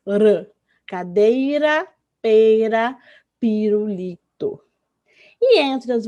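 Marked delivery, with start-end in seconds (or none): 0.0-0.5 R as a brief tongue-tip "ruh"; short tapped or trilled R sound; weak R sound. Shown as a demonstration. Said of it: "tem som de R". 0.9-4.6 cadeira, pera, pirulito slowly, each R tapped; measured word-by-word "Cadeira, pera, pirulito" with light R; weak R words. Shown as a demonstration. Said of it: "tem som de R".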